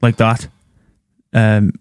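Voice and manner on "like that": southern Irish accent demo; Dublin accent. Shown as a demonstration. Showing friends southern Irish, light Dublin accent. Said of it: "Do Irish?".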